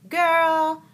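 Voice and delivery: loud, drawn-out dismissive put-down; mock incredulous attitude, opening high; imitated sassy clerk. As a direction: scoff as the counter lady, slowly. Voices lady behind baggage counter.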